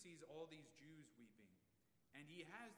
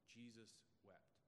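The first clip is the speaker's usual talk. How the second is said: soft, lower, drawn-out reading; hushed reverence; 3 semitones lower, 9 dB quieter than usual. Shown as a demonstration. Preacher reading the famous verse softly. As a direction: let the verse fall away into a hush. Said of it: "look at this most famous of verses".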